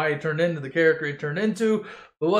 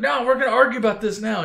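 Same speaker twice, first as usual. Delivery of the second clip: arguing; 5 semitones higher, 3 dB louder, faster than usual. Retold or imitated. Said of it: "And everybody's like".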